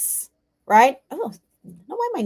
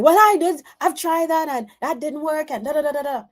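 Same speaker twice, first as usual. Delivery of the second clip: higher-pitched, mock brushing-off of advice; dismissive teen protest; 6 semitones higher than usual. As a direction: bat the advice away, trailing into da-da-da.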